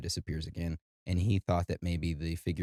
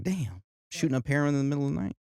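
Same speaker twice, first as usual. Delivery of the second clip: higher, quicker incredulous blurt; mock surprise; 8 semitones higher, faster than usual. Podcaster joking to co-host about a misread word, mock surprise. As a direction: act out a baffled reaction. Mock reaction to misheard story.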